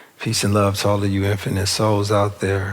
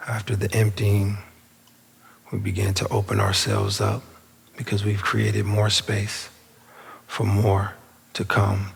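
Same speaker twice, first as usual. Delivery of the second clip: unhurried meditation guide with long pauses; spacious, measured affirmation leading; guided meditation. Real, not acted. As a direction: guide them inward, phrase by phrase. Leads the meditation.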